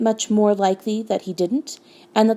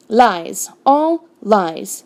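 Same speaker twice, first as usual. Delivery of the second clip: firm, mildly raised denial; understated indignant contradiction; indignant interruption; 4 dB louder, much slower than usual. A narrator's reading. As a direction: cut in with a touch of outrage. Badger cuts in, contradicting dwarf.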